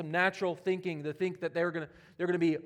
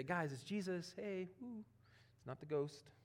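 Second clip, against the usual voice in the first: casual mock greeting; 12 dB quieter than usual. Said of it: "He didn't say".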